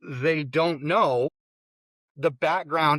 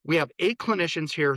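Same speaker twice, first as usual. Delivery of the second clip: cheerful welcome; 2 semitones higher, faster than usual. Retold or imitated. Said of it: "she's like".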